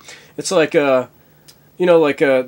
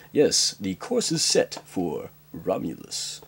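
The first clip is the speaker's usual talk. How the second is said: lower, softer, slow officer report; low deadpan officer; 5 semitones lower, 7 dB quieter, slower than usual. Acted. Officer reports the course to the captain, deadpan.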